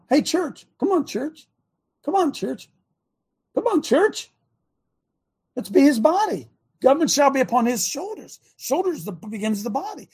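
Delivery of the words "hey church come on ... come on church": rallying the church. Real, not acted. Preacher rallying the congregation.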